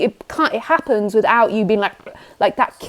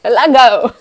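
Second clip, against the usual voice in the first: calling out a name; 6 dB louder than usual. Retold or imitated. Calling out to the caller on Skype.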